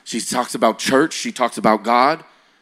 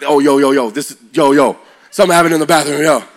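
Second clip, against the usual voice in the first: put-on excited kids; 3 semitones higher, 5 dB louder than usual. Excited kids spreading word.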